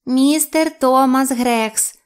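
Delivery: slow, high, loud creature echo; саламандра повторює. A narrator's reading. (повільний високий голос саламандри)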